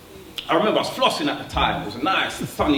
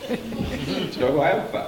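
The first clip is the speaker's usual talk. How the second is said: big-headed boast. Retold or imitated. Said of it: "my head started to get a little bit kinda".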